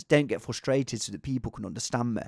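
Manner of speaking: lightly put-on Leicester accent; a hint of East Midlands Leicester. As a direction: say it in a mock Leicester voice. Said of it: "in a Leicester accent is".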